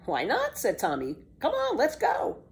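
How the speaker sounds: put-on high, excited boy; eager boy Tommy. Tommy happily accepts breakfast, high eager boy voice. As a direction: hurry them off.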